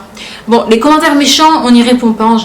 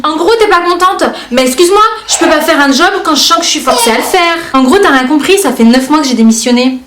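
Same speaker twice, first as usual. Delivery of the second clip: plus haut et narquois, commentaire qui se moque; lance-le comme une pique sarcastique; moqueur; 4 semitones higher than usual. Retold or imitated. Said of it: "de la manière dont moi je les lis dans ma tête". (commentaire lu d'un ton sarcastique)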